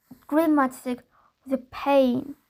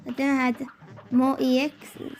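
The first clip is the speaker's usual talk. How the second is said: German accent. Shown as a demonstration. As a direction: put on an amateur German accent. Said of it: "try to do this with German accent".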